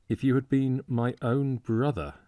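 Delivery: "my own brother" weighted with strong emphasis, pitch held high; stress on "my own brother". A narrator's reading. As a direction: lean hard on each word of "my own brother". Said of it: "He laid a singularly strong emphasis on those three words".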